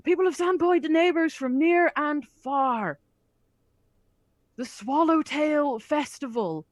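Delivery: slow, high, booming festival address; booming priest voice. Acted. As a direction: proclaim it slowly to the crowd. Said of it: "huge booming voice that he was not using earlier".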